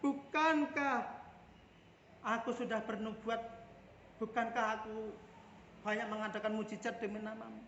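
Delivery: begging God to remember deeds; fervent plea; earnest plea. Retold or imitated. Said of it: "Menyebut Tuhan dengan".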